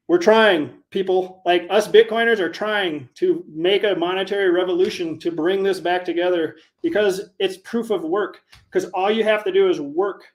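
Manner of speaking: impassioned, emphatic rallying push; worked up. Real, not acted. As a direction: speak with fired-up conviction. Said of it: "I'm getting worked up tonight".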